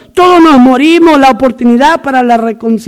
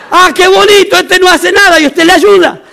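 higher-pitched acted sarcasm; mock sarcastic scolding; 5 semitones higher than usual. Instructor to two idle recruits, hammed-up sarcastic scolding. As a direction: play the instructor feigning admiration.

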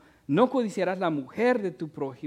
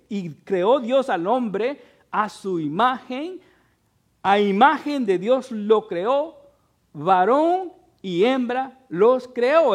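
loud, raised, slow pulpit recitation; forceful scripture proclamation; 5 semitones higher, 8 dB louder, slower than usual. Real, not acted. Preacher quoting Genesis to the congregation, proclaiming it forcefully. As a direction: ring out each phrase of the verse.

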